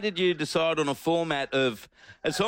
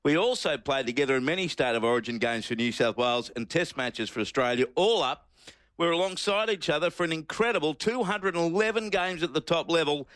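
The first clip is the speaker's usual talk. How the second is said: reading aloud. Shown as a demonstration. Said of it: "and you start".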